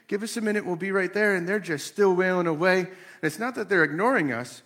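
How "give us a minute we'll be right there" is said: gentle, higher-pitched parental request; imitated patient parent; asking nicely. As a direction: politely put off the kids. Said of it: "we're asking them nicely".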